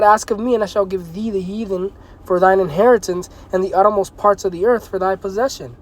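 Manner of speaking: measured preacher reading; scripture reading. Acted. Preacher reading the promise of inheritance, measured. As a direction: read the promise steadily.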